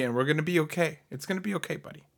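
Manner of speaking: quiet, consoling reassurance; reassuring. Real, not acted. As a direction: gently talk a friend down. Consoling an angry co-host.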